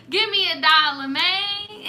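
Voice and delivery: whiny begging cracking into a laugh; mock begging. Mocking a fan begging for money, breaking into laughter. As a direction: beg then crack up laughing.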